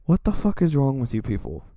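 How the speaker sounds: outraged yell. Real, not acted. Ranting about lewd fan content.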